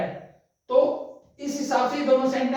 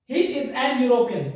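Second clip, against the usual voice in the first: careful, drawn-out classroom reading; measured pace for learners; slow read-back; much slower than usual. Shown as a demonstration. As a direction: read the sentence back slowly. Reads back the written sentence.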